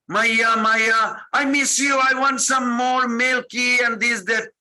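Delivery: put-on high, childlike begging for mother and milk; child Krishna pleading.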